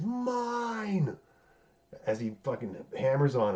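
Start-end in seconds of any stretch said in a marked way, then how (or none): 0.0-1.2 imitating Kingpin's high scream of Mine; retold scream. Recapping the show, he mimics Kingpin screaming as he beats Adam. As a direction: belt it out like a brute who has snapped. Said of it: "he screams".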